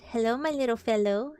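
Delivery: kindly. Acted. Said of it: "in a kindly way".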